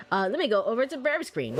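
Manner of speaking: ordinary delivery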